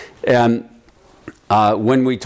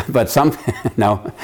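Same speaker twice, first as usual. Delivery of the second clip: laughing. Real, not acted. Laughs at own joke.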